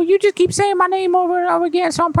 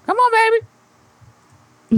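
drawn-out plea; 3 semitones higher, much slower than usual. Pretend. Drawn-out pleading.

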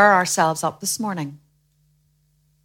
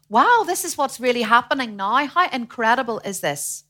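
mildly raised, marvelling voice; acted amazement; 5 semitones higher, 3 dB louder than usual. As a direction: play believers thrilled by what they read. Voices amazed scripture readers.

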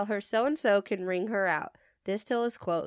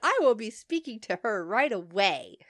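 stern, appalled service voice. Retold or imitated. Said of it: "Sounding stern and appalled while maintaining my higher-pitched voice".

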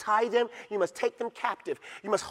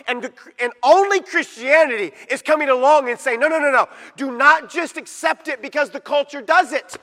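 loud, driving pulpit delivery; fiery preaching; 7 semitones higher, 9 dB louder than usual. Acted. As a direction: preach it hard to the congregation. Preaching on culture vs scripture.

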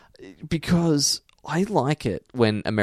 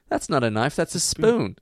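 mock Aussie quote; 5 semitones higher than usual. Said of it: "quoting Simpsons line".

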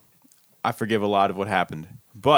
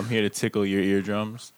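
sexy voice; 3 semitones lower, 4 dB quieter than usual. Pretend. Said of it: "That sounds weird".

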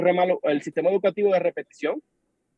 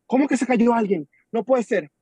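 higher, mock-incredulous reaction; retold disbelief; 4 semitones higher, 3 dB louder than usual. Boss hearing that someone fell, mock disbelief. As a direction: act out a boss who can't believe it. Acting out the boss's shocked reaction.

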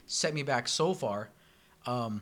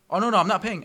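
mock customer voice; 5 semitones higher, 6 dB louder than usual. Voicing customer.

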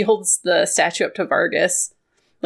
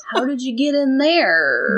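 drawn-out incredulous question; in-character astonishment; 3 semitones higher, slower than usual. Acted. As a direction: stretch it out, voice swooping down. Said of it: "be like".

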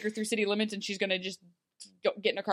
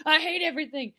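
higher, put-on exasperated complaint; mock exasperation; 7 semitones higher, 5 dB louder, faster than usual. Host voicing a grown-up facing cleanup, mock exasperation. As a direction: play up being fed up with it all.

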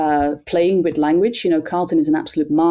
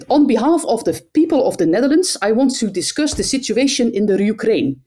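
lightly voiced stiff official speech; a hint of a formal politician addressing NATO; imitating the prime minister; 5 semitones higher than usual. Mocking the prime minister's stiff speech at NATO, lightly voiced. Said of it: "then he says".

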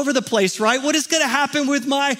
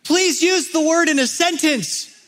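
higher, mock schoolboy request; raised pitch, hinting at a schoolboy; sixth-grade cracking voice; 5 semitones higher, slower than usual. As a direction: lightly imitate an unsure sixth grader. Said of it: "cracking voice".

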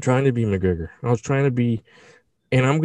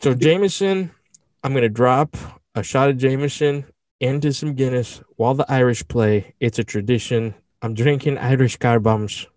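put-on Irish accent. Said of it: "that was actually better".

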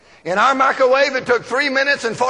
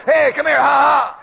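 calling out laughing; 3 dB louder than usual. Retold or imitated. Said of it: "You need to say".

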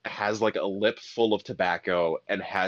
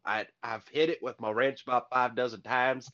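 put-on Southern accent. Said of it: "deep Southern accents".

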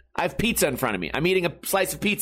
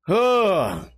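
ordinary delivery

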